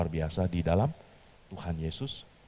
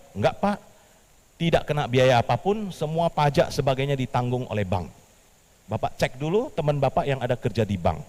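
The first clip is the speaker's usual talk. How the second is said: reassuring caller; 3 semitones higher than usual. Acted.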